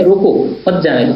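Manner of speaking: रोको on its own, then मत जाने दो as one phrase; pause after रोको. Shown as a demonstration. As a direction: split off रोको and attach मत to जाने दो. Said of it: "यानी व्यक्ति को रोकना है".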